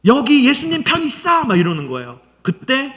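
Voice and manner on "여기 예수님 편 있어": high-pitched accusing outcry; acted scolding. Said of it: "막 혼내는 거예요". (높은 목소리로 혼내듯이)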